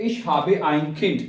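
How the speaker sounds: slow, careful model sentence; slow demo. Shown as a demonstration. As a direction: spell out each German word slowly. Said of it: "तो आप कहेंगे". (धीमे और साफ़ उच्चारण)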